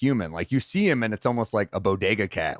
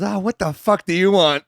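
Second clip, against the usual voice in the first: mock Burr snarl; 9 semitones higher, 4 dB louder than usual. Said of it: "and Burr goes".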